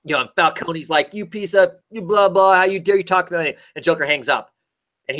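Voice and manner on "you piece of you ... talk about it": higher-pitched sputtering retort; mock outrage. Mob boss answers Joker's threat on the phone, mock outrage. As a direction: imitate an offended mob boss, half-filled with blahs.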